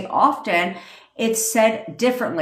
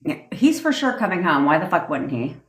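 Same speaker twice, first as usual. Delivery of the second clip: conceited bestie chat. Retold or imitated. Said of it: "And you were like".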